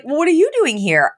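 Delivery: high mock-surprised echo; echoed shock. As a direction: throw the same shock back. Bob echoes her shock.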